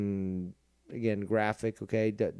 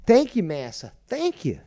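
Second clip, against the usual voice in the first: mock servile thanks; 7 semitones higher, 9 dB louder than usual. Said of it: "is what fucking Y R is saying".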